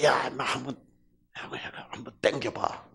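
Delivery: hushed, half-whispered nudge; softly urging a buddy; friend's coaxing. Acted. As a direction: egg a pal on under your breath. Friend coaxing gambler, low unvoiced.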